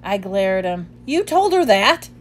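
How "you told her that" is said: sharp, loud disbelieving question; incredulous. A narrator's reading. Ivan confronting Bob, sharp angry disbelief. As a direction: demand it, stunned and angry.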